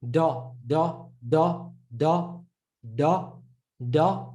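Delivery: "Da" with a plain D and Ah vowel; like the Dal. Shown as a demonstration. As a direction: repeat "Da" evenly, on an Ah. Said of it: "Just say like the Dal".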